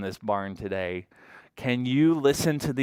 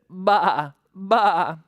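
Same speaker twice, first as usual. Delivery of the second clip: loud, higher bleating baa; sheep bleat; 6 semitones higher, 5 dB louder than usual. Acted. Giving children a clue to the next animal, sheep bleat. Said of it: "This animal says".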